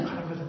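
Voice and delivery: very soft mechanical clatter; machine rattle imitation. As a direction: rattle it off under your breath like a machine. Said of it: "就像机器一样". (轻声模仿机器咔啦作响)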